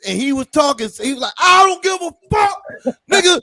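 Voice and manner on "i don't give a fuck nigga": loud, high angry yell; drunk yelling. Retold or imitated. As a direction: yell it like a drunk friend ready to fight. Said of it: "Ron was so loud outside".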